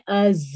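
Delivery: از with a held buzzing Z. Shown as a demonstration. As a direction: close the teeth and buzz the Z in از. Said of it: "یہ basically جو ہے buzzing sound".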